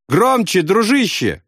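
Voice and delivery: high, cheerful yell; friendly shout. A narrator's reading. Friend shouts to wounded man, cheerful. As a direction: call out to your buddy. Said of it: "крикнул он".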